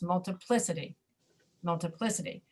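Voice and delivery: "multiplicity" with the weight on PLI; heaviest on PLI. Shown as a demonstration. Teacher explaining stress to a student, "multiplicity" heaviest on PLI. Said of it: "is where the heaviest falls".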